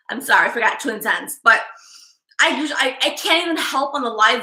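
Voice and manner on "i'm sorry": laughing apology. Real, not acted.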